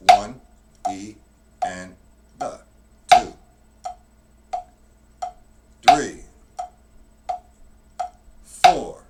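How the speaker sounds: slow, spaced-out count. Shown as a demonstration. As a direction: break the count down slowly. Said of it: "By breaking it down like this".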